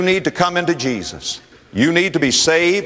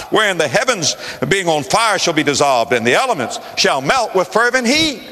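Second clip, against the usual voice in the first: preaching shout; 3 semitones higher than usual. Acted. Preacher building the scripture climax.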